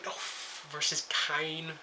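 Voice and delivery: slow, drawn-out British accent on "Dolph versus Kane"; a half-hearted British accent, stretching each word. Shown as a demonstration. Recapping the match card in a mock British accent. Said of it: "why did I try to hook up a British accent there?".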